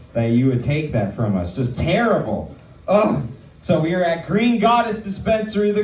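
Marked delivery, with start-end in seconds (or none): 2.9-3.3 short, loud mock-disgusted groan. Mock disgust at sidekick's terrible joke.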